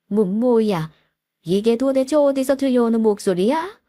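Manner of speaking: startled father-in-law, slightly stammering. Acted. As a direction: stammer in mild shock, pitch lifting a little. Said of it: "시부가 깜짝 놀라서 이러시더군요". (깜짝 놀라 더듬는 시아버지 목소리)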